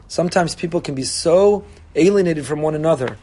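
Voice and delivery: usual speaking voice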